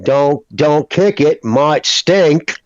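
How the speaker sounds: lightly imitated New England drawl; a touch of a weird Maine drawl. Shown as a demonstration. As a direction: give a hint of an old New England drawl. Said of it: "they got that old New England drawl".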